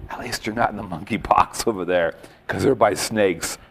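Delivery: a soft, low murmur into the monkey's ear; hushed whisper. Retold or imitated. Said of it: "I whispered to the little monkey".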